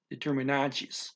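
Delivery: "determinantes" with the final tes said "chees"; teacher's model of "determinantes", t softened to ch before the final es; TE said as chi. Shown as a demonstration. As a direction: say "determinantes" ending in a chees sound. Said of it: "a T E at the end".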